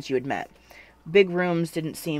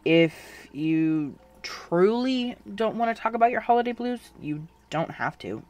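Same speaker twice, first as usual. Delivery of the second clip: gentle, slow reassurance; softly; 6 semitones higher than usual. A narrator's reading. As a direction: ease off the pressure kindly. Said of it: "Donnie said softly".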